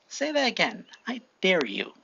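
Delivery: mock threat, starting high and dropping; acted challenge. Deku threatening classmates with a fireball, acted challenge. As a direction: dare them, pitch falling to the last word.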